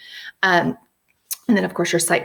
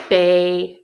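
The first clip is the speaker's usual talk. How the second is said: clapped syllables; 3 semitones lower, 4 dB louder than usual. Shown as a demonstration. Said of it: "let's clap out".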